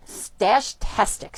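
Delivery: slow, hushed "Stash-tastic", split in two; careful pronunciation. Real, not acted. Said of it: "I can't even say it".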